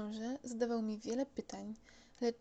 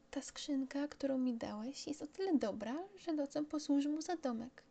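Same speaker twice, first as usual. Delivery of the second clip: put-on higher boyish voice; explaining child voice; 5 semitones higher than usual. Little prince tells pilot about the sheep's box, child voice. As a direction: explain it simply like a little boy.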